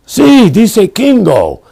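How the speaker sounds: high, loud, slow and breaking into laughter; laughing through the words; laughing quote. Retold or imitated. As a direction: quote the clerk while cracking up. Laughing while quoting hotel clerk.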